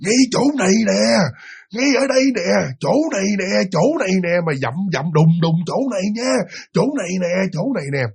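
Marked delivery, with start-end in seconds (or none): 0.0-4.4 stern ghost pressing out each word; gritting out the words like a looming ghost; growled low. Retold or imitated. Ghost stamping and growling at the frightened girl, mock menacing. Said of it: "gằn cái giọng nói nữa". 5.7-8.0 low growl. Retold or imitated. Ghost insisting on the corner, softer mock growl. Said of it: "Nó gằn cái giọng thiệt là trầm".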